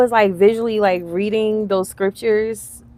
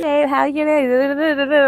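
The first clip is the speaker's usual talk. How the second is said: high, loud, drawn-out fake greeting; mocking sweet talk; 8 semitones higher, 5 dB louder, much slower than usual. Reactor mimicking shallow client chat, mocking sweet talk. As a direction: stretch it into a hammed-up flirty hello.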